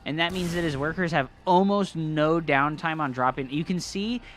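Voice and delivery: live play-by-play game commentary; esports caster. Acted. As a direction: call the match like a caster. Casting the match.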